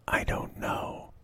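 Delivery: slow, soft whisper; whispered aside. Real, not acted. Confessing she doesn't know why, slow whisper. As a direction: breathe it as a secret.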